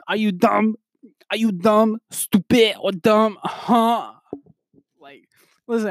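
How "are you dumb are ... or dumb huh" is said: high, hammed-up rapper rant; mock-berate like a wild rapper; six nine. Imitating that wild man's rant, six nine impression. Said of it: "from a New York accent to six nine".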